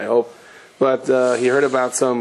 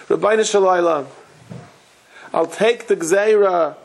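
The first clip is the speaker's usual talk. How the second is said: crying plea; 5 semitones higher than usual. Retold or imitated. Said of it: "And he's crying".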